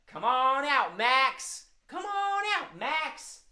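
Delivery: high, drawn call to a puppet. Pretend. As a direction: call the cat out to play. Everyone calls out the puppet.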